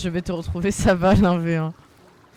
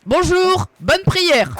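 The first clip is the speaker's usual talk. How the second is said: mock greeting; 8 semitones higher, 4 dB louder, much slower than usual. Greeting praying character.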